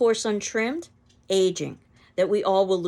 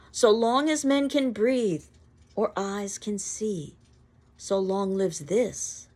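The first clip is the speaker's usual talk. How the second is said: poem recital. Acted. Reading the sonnet aloud.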